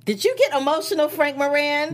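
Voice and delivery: high, loud teasing question. Real, not acted. Teasing her co-host about crying, in a loud, high voice. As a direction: tease him up high and loud.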